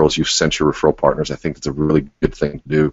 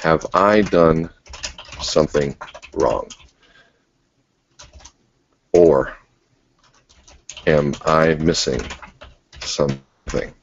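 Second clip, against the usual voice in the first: slow gentle question; slower than usual. Shown as a demonstration. Coach demonstrating to a class, slow and gentle. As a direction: ask it gently and slowly, leaving space. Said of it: "a couple ways that I like to put it back is".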